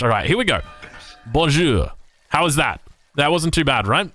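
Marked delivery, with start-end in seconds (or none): 1.3-1.9 a careful English-accented Bonjour; English speaker's French. Shown as a demonstration. Caster showing off French to his French co-caster, English-accented attempt. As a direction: try out your schoolbook French, a bit proud. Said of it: "How good is my French?".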